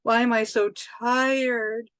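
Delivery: slow, sluggish drained voice; mock drained. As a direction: drag it out like all energy is gone. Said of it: "an energy vampire comes along and you're just like".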